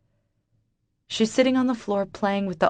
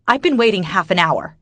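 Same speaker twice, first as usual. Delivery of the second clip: louder, irritated complaint; snapping customer; 2 semitones higher, 6 dB louder than usual. Acted. Impatient customer snapping at the late waitress, louder. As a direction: snap at the waitress. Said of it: "she snaps".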